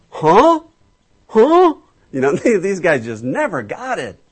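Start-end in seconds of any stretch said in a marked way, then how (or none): 0.1-1.7 much higher, louder puzzled grunt; baffled huh. Retold or imitated. Preacher mimics the confused disciples, mock bafflement. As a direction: play the dumbfounded disciple.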